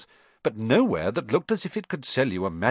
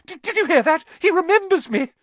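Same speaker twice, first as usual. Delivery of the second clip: much higher, louder squeal of delight; ecstatic cry; 7 dB louder than usual. Acted. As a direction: shout it to the whole pub. Diggle telling everyone excitedly.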